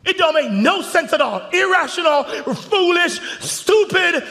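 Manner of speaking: loud, high preacher's shout; full-force preaching. Acted. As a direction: build the sermon to a roar.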